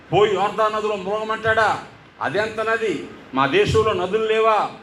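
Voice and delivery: mildly voiced offended commander; a touch of wounded pride, grumbling; indignant rant. Proud commander fuming that the pastor ignored him, mild mock anger. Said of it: "అని కోప్పడిపోతున్నాడు".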